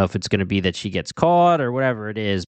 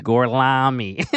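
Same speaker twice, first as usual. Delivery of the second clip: badly faked Italian accent, drawn out slowly; slow, mangled mock-Italian; Brad Pitt; 3 semitones higher, slower than usual. Host likening the mispronunciation to a film, fake Italian accent. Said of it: "Brad Pitt's pretending to be Italian".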